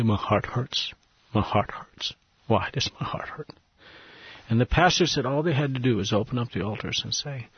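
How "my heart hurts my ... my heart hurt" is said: hushed, understated imitation of sobbing; retold sobbing. Preacher voicing listeners moved by a Bible story, hushed retold sobbing. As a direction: say it softly, as a heartfelt lament, nearly whispered at the end. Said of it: "they began to sob and say".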